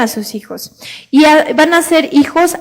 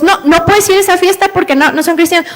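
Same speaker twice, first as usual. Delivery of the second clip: strict father; 4 semitones higher, faster than usual. Retold or imitated. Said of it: "se empieza a ser tan hermético con sus hijos".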